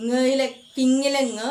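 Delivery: "ng" drawn out as "nguh", as in king; teacher demonstrating "ng" as a velar nasal syllable; isolated ng sound. Shown as a demonstration. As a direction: sound out "ng" slowly and loudly. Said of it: "the last sound in king".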